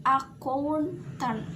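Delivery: slow, stretched "accountant", rising then falling; teacher drawing out the up-and-down tune of "accountant"; rise-then-fall intonation. Shown as a demonstration. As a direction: lift the middle of "accountant", then drop the ending. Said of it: "naik, turun lagi".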